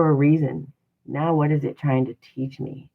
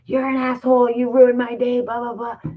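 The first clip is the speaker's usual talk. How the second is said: higher, louder mock rant at a stranger; imitated angry outburst; 7 semitones higher, 3 dB louder than usual. To a random stranger who ruined your day, a hammed-up angry outburst. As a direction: snap at someone like you're boiling over, half in play. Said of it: "that anger that could have been a reaction".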